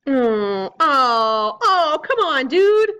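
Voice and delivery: groan, then plead upward on the last word; dismayed protest. Real, not acted. Player protesting a bad hit, groaning in dismay.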